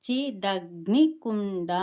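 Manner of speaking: slow చి దగ్ని కుండ, part by part, nasal in కుండ; pronunciation demo. Shown as a demonstration. Teacher puts the parts together for learners, slow syllables. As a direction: separate చి, దగ్ని and కుండ, drawing each out. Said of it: "ముక్కుతో పలికే ఒక అనునాసిక ధ్వని".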